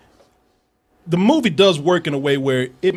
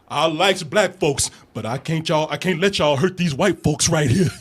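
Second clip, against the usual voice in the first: mocking servile character; 3 semitones lower than usual. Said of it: "he's straight up slave shit".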